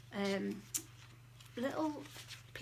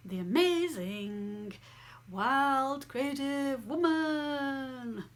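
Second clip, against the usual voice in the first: slow, loud, higher showman announcement; Pigs in Space announcer; 4 semitones higher, 7 dB louder, much slower than usual. Pretend. Announcing her new membership like Pigs in Space, hammed up and slow. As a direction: announce it like a Muppet show host. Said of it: "That was a bit like Pigs in Space".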